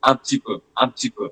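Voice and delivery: "Un petit peu" with "petit" reduced to "p'ti"; fast colloquial form. Shown as a demonstration. Teacher repeats the quick everyday version. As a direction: run "petit" together quickly. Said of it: "they pronounce it as".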